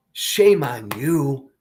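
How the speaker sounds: firm scolding. Real, not acted. Scolding Democrats, said twice.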